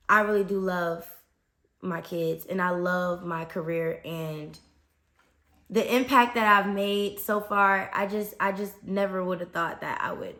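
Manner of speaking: trying not to get choked up; holding back emotion. Real, not acted. Teacher confessing love for her students and career, holding back emotion. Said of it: "I'm trying not to get emotional".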